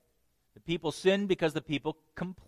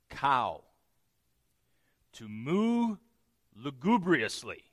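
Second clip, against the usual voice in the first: lugubrious moo; 3 semitones lower, slower than usual. Shown as a demonstration. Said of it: "here's what complaining sounds like".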